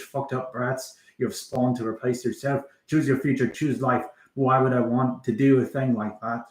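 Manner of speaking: put-on rattled-off Trainspotting monologue in Scottish accent. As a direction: recite the list like a Scottish film narrator. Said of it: "Now I gotta stop talking in a Scottish accent".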